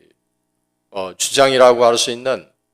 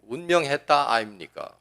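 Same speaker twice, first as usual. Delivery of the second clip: Gyeongsang dialect; 4 dB quieter than usual. Retold or imitated. Pastor repeating the pretty Gyeongsang phrase, lightly imitated. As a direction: savor "운명했다 아닙니까" in Gyeongsang speech. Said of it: "경상도 말이 참 이뻐요".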